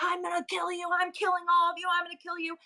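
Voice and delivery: high, held monotone mock threat; mock threatening brawler. Beaten brawler threatening the whole bar, high mocking rant. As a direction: imitate a ranting attacker without raising volume.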